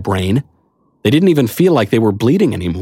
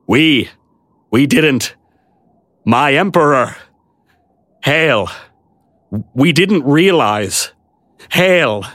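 hesitant, halting, slightly raised; abashed knight; 5 semitones higher, slower than usual. A narrator's reading. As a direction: stammer it out in bewilderment. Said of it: "staring in abashed bewilderment".

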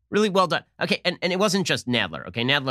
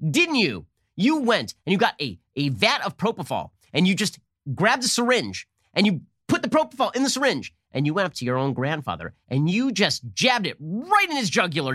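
higher, hammed-up accusing questioner; mock accusing congresswoman; 4 semitones higher than usual. Host mocking congresswoman accusing Barr, hammed-up and higher. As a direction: parody a congresswoman grilling a witness.

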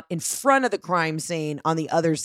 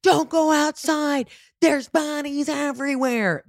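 higher, slow, drawn-out panicked yell; mock scream, much higher and slow; retold scream; 8 semitones higher, slower than usual. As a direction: replay the frantic warning, dragging each word. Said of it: "I scream at her".

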